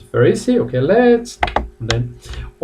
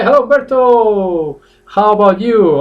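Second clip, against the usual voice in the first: a bit rude; 9 semitones higher, 5 dB louder than usual. Shown as a demonstration. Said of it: "kind of rude a little bit".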